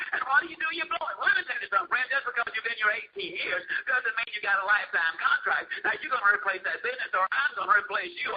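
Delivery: heated, hurried tirade; hammed-up indignant scolding; mock outrage. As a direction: imitate a boss blowing up at his sales manager. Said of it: "He literally hit the ceiling".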